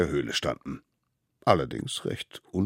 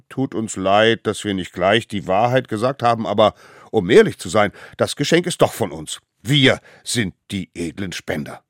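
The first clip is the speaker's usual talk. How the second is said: put-on higher, loud children's chorus voice; little ones owning up; 5 semitones higher, 9 dB louder than usual. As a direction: confess eagerly and claim the credit. (kleine Wilde, laut und beflissen)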